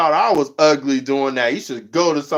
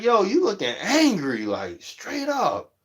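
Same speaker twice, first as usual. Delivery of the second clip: high then dropping flat and slow; incredulous call-out; 5 semitones higher, 4 dB quieter than usual. Retold or imitated. Vlogger calling out an angry streamer, high then blunt. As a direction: state it bluntly. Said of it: "I'm like".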